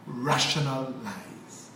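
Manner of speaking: RATIONAL LIES slowly split into two words; wordplay emphasis. Shown as a demonstration. Coining a phrase for listeners, rational lies said slowly apart. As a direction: draw out "rational lies" low and slow.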